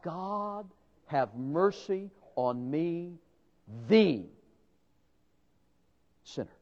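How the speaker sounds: a broken man whispering to God; hushed contrite plea. Acted. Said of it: "and cried out".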